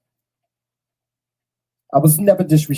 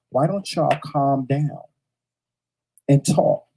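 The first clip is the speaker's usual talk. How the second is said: calm ask. Shown as a demonstration. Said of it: "I said it just like that".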